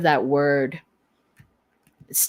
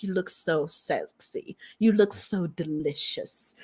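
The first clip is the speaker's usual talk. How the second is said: slow seductive murmur; 6 dB quieter than usual. Retold or imitated. Lover grabbing you in hallway.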